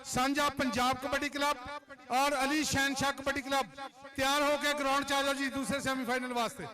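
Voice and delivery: PA announcer calling teams out; kabaddi commentary. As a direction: announce it across the ground.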